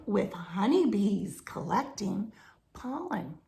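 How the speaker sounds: reading a picture book aloud; story narration. A narrator's reading. Reading a jungle story to children, storybook narration. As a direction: tell the jungle adventure to children, storybook pace.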